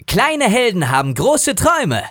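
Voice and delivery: an excited tiny hero with big dreams; Elliot the mini horse. Shown as a demonstration. Voice actor demos his mini horse on request. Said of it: "sag mal einen Satz als Elliot".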